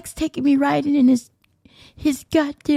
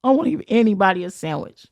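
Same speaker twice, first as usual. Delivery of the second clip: mildly sad imitation, pitched a little down; a touch of mock sadness; retold sad; 4 semitones lower, faster than usual. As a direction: mimic him glumly refusing. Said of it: "he was so sad".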